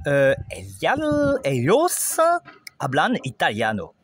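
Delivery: Argentine accent demo. Shown as a demonstration. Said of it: "le double L se prononce je ou che".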